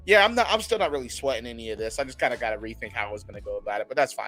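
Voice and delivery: fast, breezy unbothered brag; cocky. Retold or imitated. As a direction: shrug it off like nothing fazes you. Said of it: "very cocky".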